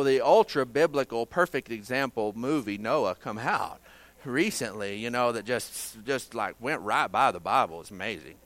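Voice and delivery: dry, deadpan mock praise; sarcastic. Real, not acted. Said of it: "I know you hear my sarcasm".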